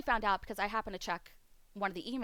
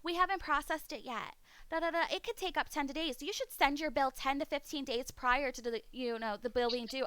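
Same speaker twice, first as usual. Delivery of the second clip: higher sing-song mock of a company rep; mocking customer service; 5 semitones higher than usual. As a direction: parody the cable company's excuses. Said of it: "They're like".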